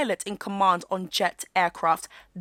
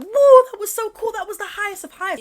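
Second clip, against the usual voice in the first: mock excitement; 11 semitones higher, 8 dB louder than usual. Vlogger mocking celebrity astronauts, mock gushing. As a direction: gush like a thrilled astronaut, tongue in cheek. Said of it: "apart from the fact that".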